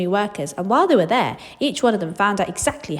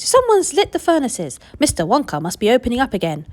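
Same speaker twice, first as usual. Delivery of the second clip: high, louder eager calling; excited shout; 4 semitones higher, 4 dB louder than usual. Acted. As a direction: spread the news with delight.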